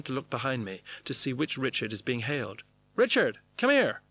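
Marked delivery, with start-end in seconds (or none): 3.0-4.0 high, loud calling voice; yelled summons. Acted. Red-haired actress summoning Richard from some distance, yelling. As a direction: hail someone and order them over. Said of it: "yells, "Richard!" from some distance".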